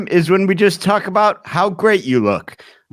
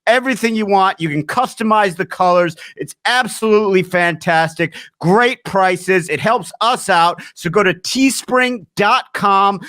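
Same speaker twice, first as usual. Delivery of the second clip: upbeat, evenly driven merch pitch; promotional ad read. Real, not acted. Host pitches the store to listeners before the episode, promotional read. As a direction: sell the merch with punched key words.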